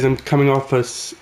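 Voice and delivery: raspy, just over a cold; hoarse voice after a cold. Real, not acted. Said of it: "So my voice sounds raspy".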